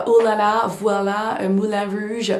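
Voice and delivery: playful mock American accent in French; imitation d'Américains parlant français. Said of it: "quand ils font semblant de parler". (accent américain imité, pour plaisanter)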